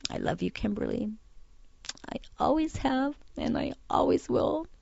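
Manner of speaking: soft, high, halting declaration; quietly voicing dad's solemn promise; retold heartfelt conviction. Daughter retelling dad looking straight at her, soft heartfelt conviction. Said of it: "he said with just conviction".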